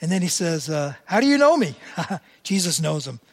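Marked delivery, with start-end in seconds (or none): 1.0-1.8 surprised question. Acted. Nathanael questioning Jesus, acted.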